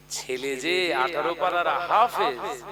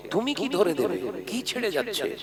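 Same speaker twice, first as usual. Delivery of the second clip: higher-pitched, incredulous questions; astonished mother; 5 semitones higher than usual. Retold or imitated. Mother questioning her son's correction, astonished. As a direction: question it in disbelief, pitch jumping up. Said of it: "মা অবাক হয়ে গেছে".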